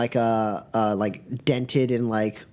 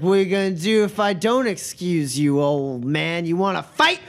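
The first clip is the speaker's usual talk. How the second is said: put-on raised-pitch drunken challenge; drunk challenger; 4 semitones higher than usual. Drunk blocking an old man's path, slurred and confrontational. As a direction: goad them like a drunk spoiling for a fight. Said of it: "brandishing it drunkenly".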